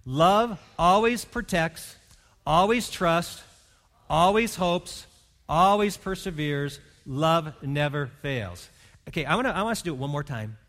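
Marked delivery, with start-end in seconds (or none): 0.0-8.7 slow, measured unison reading of the verse; slow congregational recitation; reading aloud together. Shown as a demonstration. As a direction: lead the room through the verse slowly. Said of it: "let's just read it together out loud".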